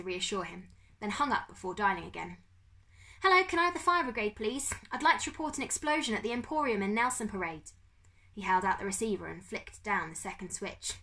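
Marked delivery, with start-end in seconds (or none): 3.2-7.7 high-pitched polite report; put-on caller voice. Bertolt reporting an explosion, high-voiced. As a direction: pitch it up for the operator. Boy phoning fire brigade.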